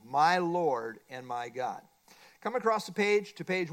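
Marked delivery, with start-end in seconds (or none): 0.0-1.9 slow, lower and inward; a slow, low, personal prayer. Shown as a demonstration. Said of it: "it must be personal".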